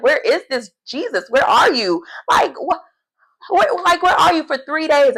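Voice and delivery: high, pleading, frantic mother calling out; a mother searching for her lost boy; worried mother. Retold or imitated. Mother searching three days for son, high and frantic. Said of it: "Like, they're in fear".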